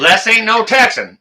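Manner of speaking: correcting him through a laugh. Real, not acted. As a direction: chuckle while you set him straight.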